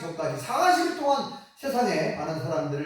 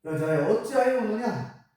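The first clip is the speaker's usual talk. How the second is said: angel asking; 4 semitones higher than usual. Retold or imitated. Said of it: "천사가 그렇게 말합니다".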